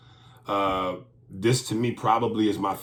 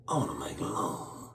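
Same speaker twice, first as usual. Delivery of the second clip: softer, lower tender line; hushed foreign-accent come-on; soft mock accent; 4 semitones lower, 9 dB quieter than usual. Shown as a demonstration. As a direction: breathe it tenderly.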